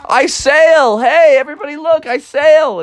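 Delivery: high, fast, proud crowing; Froggy shouting proudly from his sailboat; excited shout. Acted. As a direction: yell it to everybody from the boat. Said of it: "he was screaming out".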